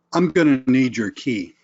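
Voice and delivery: blunt, firm demand for the key. Shown as a demonstration. Stranger at the hotel demanding the car key bluntly. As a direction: state it like an order. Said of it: "listen to the tone".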